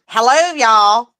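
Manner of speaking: slow Southern drawl on Hello, y'all; Southern accent. Shown as a demonstration. Mom showing off her accent to the kids, slow Southern drawl. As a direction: show off a Southern accent, slowly. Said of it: "listen to mine".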